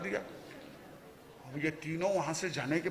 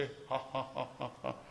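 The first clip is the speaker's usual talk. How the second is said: soft, half-hearted mock laugh; spoken ha-ha-ha, quietly imitating a laugher; imitated laughter; 5 semitones lower, 12 dB quieter, slower than usual. Friend spots the fat oilman, imitated soft laughing. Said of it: "हंसने लगा जोर जोर से".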